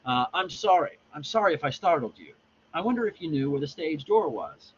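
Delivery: apologise, then ask politely; lightly voiced apologetic stranger. Stranger asking where the stage door is, politely apologetic.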